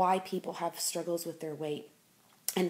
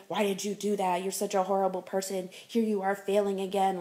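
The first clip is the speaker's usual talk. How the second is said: mock inner critic, scolding and getting louder; harsh self-criticism; 3 dB louder than usual. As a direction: berate yourself like a harsh inner voice. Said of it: "beat yourself up and say".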